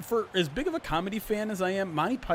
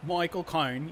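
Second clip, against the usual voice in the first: Michael Caine impression; slower than usual. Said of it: "that's as close as I can get".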